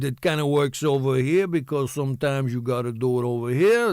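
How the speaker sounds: a lightly voiced tough-guy Stallone, sounds shifted to the side of the mouth. Shown as a demonstration. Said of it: "This is kind of a Stallone thing".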